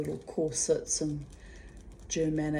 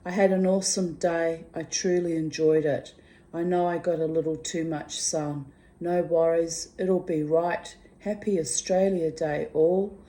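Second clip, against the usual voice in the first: cheery read-aloud, louder at the end; reading friend's excited message; 3 dB louder than usual. Retold or imitated. Reading her friend's Australia Day message, cheerful and building. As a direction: build into the Aussie chant. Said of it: "here she writes".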